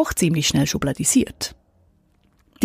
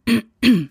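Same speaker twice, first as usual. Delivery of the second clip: throat clearing; 5 semitones higher than usual. Shown as a demonstration. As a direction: clear your throat pointedly. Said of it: "sich ständig räuspert".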